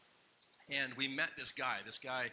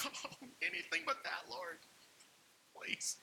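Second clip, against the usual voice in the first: mock pleading. Pleading with God in car.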